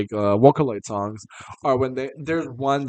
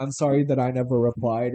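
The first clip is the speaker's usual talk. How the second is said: imitated, mock quivering voice.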